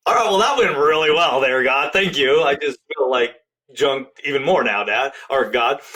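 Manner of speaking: mock gratitude, feeling let down; sarcastic to God. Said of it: "I'm like".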